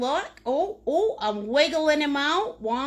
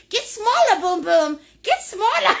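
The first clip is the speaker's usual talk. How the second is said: raised, higher mock command; mock order to the brush; 6 semitones higher, 6 dB louder than usual. Painter scolding her brush to get smaller, mock shout. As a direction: scold the brush playfully, louder. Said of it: "I say".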